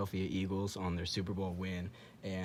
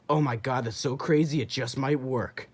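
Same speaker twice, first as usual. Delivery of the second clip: mock coach excitement; 3 semitones higher, 4 dB louder than usual. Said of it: "And he's like".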